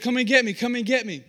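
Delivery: lightly voiced teasing invitation; playful dad calling. Dad to child in the hallway, playfully teasing.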